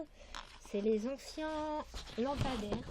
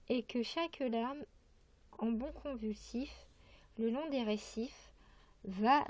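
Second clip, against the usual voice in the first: measured verse reading with pauses between lines; poetry recitation. Acted. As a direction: recite the poem phrase by phrase. Reads a poem aloud.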